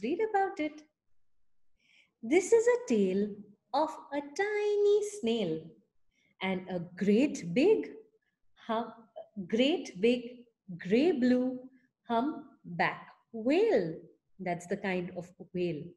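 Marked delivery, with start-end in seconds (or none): 2.2-14.0 put-on reading to children. A narrator's reading. Reading a picture book to a child, storytelling voice. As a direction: read it out like a bedtime story.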